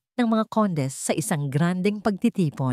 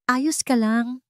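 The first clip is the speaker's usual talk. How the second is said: higher, concerned check-in; pitched-up anxious concern; worried; 7 semitones higher, slower than usual. A narrator's reading. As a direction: ask gently, full of worry. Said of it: "puno ng pag-aalala".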